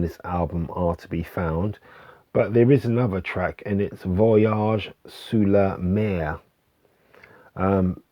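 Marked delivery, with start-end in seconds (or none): 4.0-6.4 slow, put-on French accent; lightly hammed French accent; faux French accent. Shown as a demonstration. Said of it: "my faux French accent".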